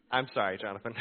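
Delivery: sheepish apology with a laugh. Retold or imitated. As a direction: say sorry through a laugh. Apologizing to son.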